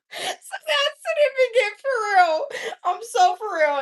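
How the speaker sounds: high, loud, laughing through the words. Real, not acted. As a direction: still cracking up while talking. Laughing after her own joke.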